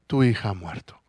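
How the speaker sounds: hushed whisper of bad news; a whispered "your daughter is dead". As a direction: breathe it out like grim tidings. Messengers bring news of death.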